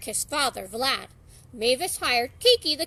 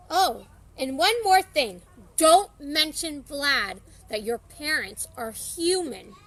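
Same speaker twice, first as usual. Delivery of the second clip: louder and slower, pointed caution; warning; 6 dB louder, slower than usual. Acted. Drac warning Johnny not to mention his parents, firm slower warning. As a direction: lean in and warn him seriously. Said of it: "Drac warned".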